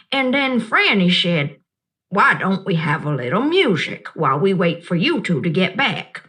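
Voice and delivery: a lightly voiced old woman, kind and knowing; Gloria Dump. Old woman reassuring the upset child, gently amused.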